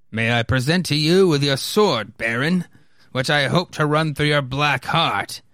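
lightly acted, formal swordsman; challenging colonel. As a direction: issue a stately challenge to a foe.

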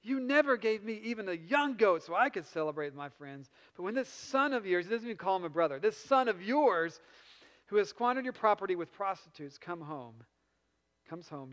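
put-on resentful older brother. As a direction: let years of grievance spill out. Older brother's angry complaint.

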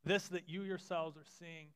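measured reading of scripture aloud. Acted. Pastor reading Peter's sermon aloud to the congregation, steady and measured. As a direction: read the passage steadily to the church.

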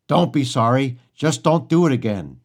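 loud, mock-stern rebuke; imitated teacher's growl. English teacher calling out a goofing student, loud imitated growl. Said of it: "Mister Reich growled".

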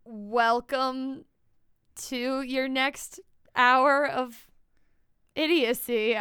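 slow, drawn-out ride announcer; spooky ride narrator. Pretend. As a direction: welcome riders to a wild ride. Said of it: "how would you describe our show".

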